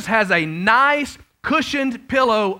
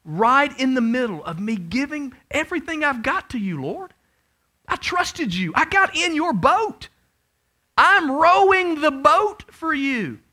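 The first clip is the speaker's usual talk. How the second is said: rising indignant complaint; 5 semitones higher than usual. Retold or imitated. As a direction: build the protest to a peak. Believer complains to Lord.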